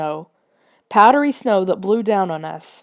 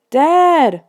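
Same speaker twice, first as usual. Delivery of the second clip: high, loud call for Dad; 8 semitones higher, 6 dB louder than usual. A narrator's reading. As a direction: call into the storm for father. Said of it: "we called out".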